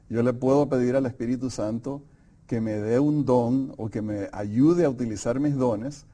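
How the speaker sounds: ordinary talk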